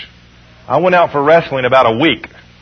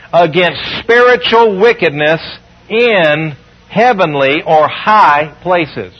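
scripture reading; 2 semitones higher, much slower than usual. Acted. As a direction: proclaim each phrase of the verse slowly. Reads Ephesians six twelve.

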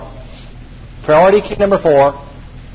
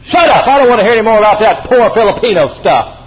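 loud, high "Shut up!" then firm; sharp rebuke; 3 semitones higher, 4 dB louder than usual. Retold or imitated. John Osteen rebuking Rudy, a loud mock shout. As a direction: snap at him to stop. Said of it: "just turned around to him one day and just said".

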